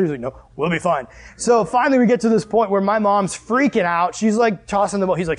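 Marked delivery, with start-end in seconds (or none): 0.2-1.1 low, soft brush-off; unconcerned dad. Retold or imitated. Dad refusing to stop in storm, unconcerned. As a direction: imitate dad calmly waving away worry. Dad dismisses plea for shelter.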